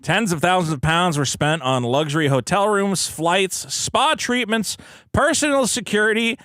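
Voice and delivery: deliberate mock-newscast delivery; news read. Co-host reads a charity scandal story, news read.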